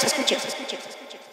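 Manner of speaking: fading repetition. Real, not acted. Fading repeated command.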